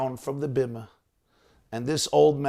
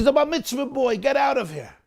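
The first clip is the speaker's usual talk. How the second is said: mock angry order; 11 semitones higher than usual. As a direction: shove him off the bima with it. Gabbai voiced ordering Moshe out.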